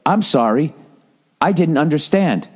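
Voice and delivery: robot voice. Retold or imitated. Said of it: "the thing all of a sudden just goes".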